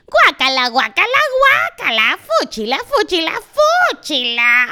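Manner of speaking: prim, scolding hen of a lady; a lightly voiced turkey tutting at the mess; fussy lady turkey. Turkey scolds the messy fox. (señora pava remilgada regañando)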